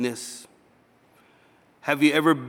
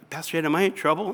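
scared student; 6 semitones higher, much faster than usual. Acted. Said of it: "you scare me".

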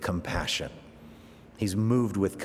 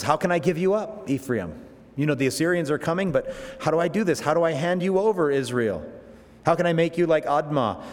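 higher-pitched, pleading questions; mildly anguished appeal, pitched up; 6 semitones higher than usual. Acted. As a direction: plead as a father torn over his son. God agonizes over giving up Israel.

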